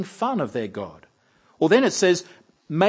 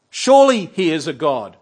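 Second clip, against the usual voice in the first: mocking; 9 dB louder than usual. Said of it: "in a mocking way".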